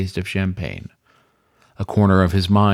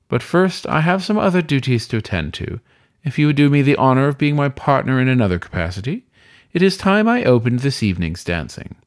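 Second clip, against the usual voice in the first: higher, gracious host voice; courtly weasel host; 4 semitones higher than usual. Acted. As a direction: invite him with a courtly flourish. Weasel master invites dance.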